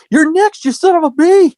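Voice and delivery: hammed-up Goldberg threat; imitating Goldberg.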